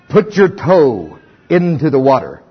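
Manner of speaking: slow, low, patient command; God's calm instruction. Acted. God telling the frightened Israelites what to do, slow and calm. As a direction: tell them plainly and slowly.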